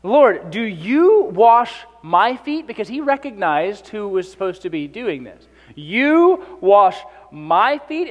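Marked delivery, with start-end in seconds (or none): 0.0-2.6 incredulous. Retold or imitated. Peter's shocked question to Jesus. 5.8-8.1 incredulous. Retold or imitated. Peter repeats in disbelief.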